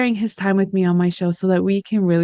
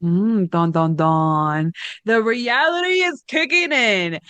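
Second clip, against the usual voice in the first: dramatic sting; 2 semitones higher, slower than usual. Pretend. Dramatic sting before reality hits.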